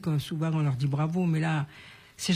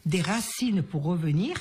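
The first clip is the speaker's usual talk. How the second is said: recited saying. Shown as a demonstration. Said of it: "refais-la nous, s'il te plaît".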